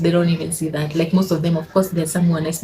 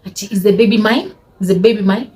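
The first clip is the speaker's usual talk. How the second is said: retold indignant question, rising at the end; mock a snappy challenge; imitated snapping; 3 semitones higher, 3 dB louder than usual. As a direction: throw it back as a snapped question. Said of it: "Hey, she snapped".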